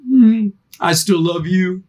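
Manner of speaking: gentle, unbothered reassurance; calm loving parent. Retold or imitated. Parent answering a door-slamming kid, calm and loving. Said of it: "you go".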